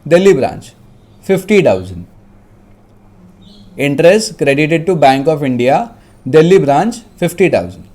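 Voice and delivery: measured dictation with pauses; dictating. Real, not acted. Teacher dictating a question to students, dictation voice. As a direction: dictate phrase by phrase. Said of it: "मैं dictate कर रहा हूँ".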